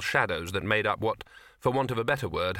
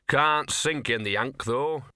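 thoughtful; 3 semitones higher, slower than usual. Acted. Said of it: "he said thoughtfully".

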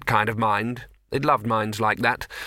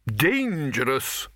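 firm; 3 semitones higher, much slower than usual. Acted. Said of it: "said the Arch-Chancellor firmly".

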